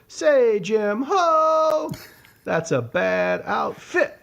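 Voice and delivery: doing the pimp's whole line for friends. Retold or imitated. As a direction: drawl out the insult like a flashy pimp. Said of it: "and he goes".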